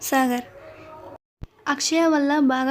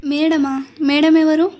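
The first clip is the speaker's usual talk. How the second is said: surprised, rising louder on the second question; startled, louder who-is-she question; 4 dB louder, slower than usual. Acted. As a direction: caught off guard, demanding who. Startled boss hears madam arriving.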